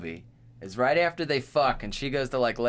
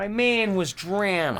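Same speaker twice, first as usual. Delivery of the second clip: high, louder put-on accent, DROWNING as "drahn"; 8 semitones higher, 4 dB louder than usual. Shown as a demonstration. Friend told him to say it with an accent, playful accent. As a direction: lean into a playful exaggerated accent. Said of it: "say it with an accent".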